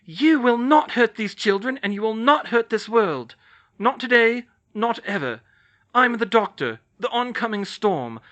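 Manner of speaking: loud, high, commanding defiance; fierce challenge. Acted. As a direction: face down the monster, full force. Hermione confronts the angel.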